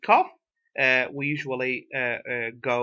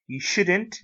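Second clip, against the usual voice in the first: "shouldn't" raised in pitch with a rising end; stress on shouldn't; 4 semitones higher than usual. Shown as a demonstration. Teacher repeating the model for learners, stress on "shouldn't". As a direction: lift "shouldn't" above "you". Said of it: "The stress is on the word of shouldn't".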